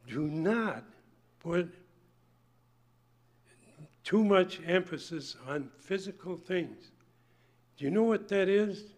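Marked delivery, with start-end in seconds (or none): 0.1-6.9 slow, deliberate reading with long pauses between words; read slowly. Shown as a demonstration. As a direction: let each word sink in, drawn out and spaced. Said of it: "I want to read that so slow that it sinks into our minds".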